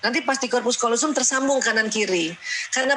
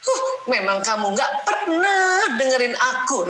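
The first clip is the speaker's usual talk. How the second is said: sulking wife; slower than usual. Acted. Acted quarrel, wife sulks.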